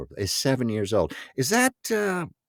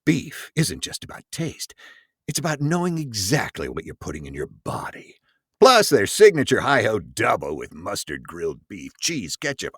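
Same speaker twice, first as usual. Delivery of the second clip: breathy voice. Acted. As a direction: breathe the words like a sultry ad. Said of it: "I'm going in my breathy voice here".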